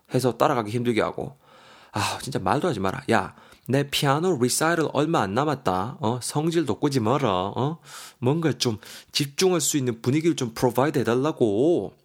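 mildly exasperated acted nagging; upset complaint. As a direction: plead crossly, half in play. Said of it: "미정이가 속상해서 말을 하고 있어요".

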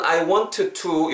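"I want to" with both T's sounded separately; over-careful WANT TO. Shown as a demonstration. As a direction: spell out the T ending "want", then a separate "to". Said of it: "굳이 이렇게 발음하지 마시고". ("I want to"의 t를 두 번 또박또박 발음)

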